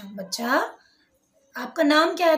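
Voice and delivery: put-on a teacher gently coaxing a frightened child to say her name; coaxing, lovingly. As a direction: coax the shy girl lovingly into answering. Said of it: "थोड़ा उसको सहेज के, प्यार से".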